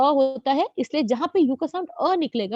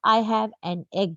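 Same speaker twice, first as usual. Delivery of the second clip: very slow example sentence; slow example read; 2 semitones lower, much slower than usual. Shown as a demonstration. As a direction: dictate it clearly. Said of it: "teacher reads example sentence". (धीरे-धीरे उदाहरण पढ़ना)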